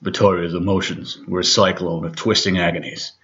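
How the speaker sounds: gruff, earnest trailer voiceover; movie trailer narrator voice; horror trailer voice. Shown as a demonstration. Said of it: "gruff, deadly earnest Hollywood trailer voiceover guy".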